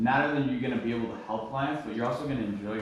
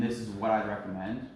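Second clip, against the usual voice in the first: a firm, steady recommendation; understated confidence, at normal volume; confidence and conviction. Shown as a demonstration. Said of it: "make sure you're saying it with confidence".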